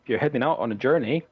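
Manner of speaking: Bildrath. Acted. Farmer recommends trading post to travellers, lightly voiced sales patter. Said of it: "Says, uh".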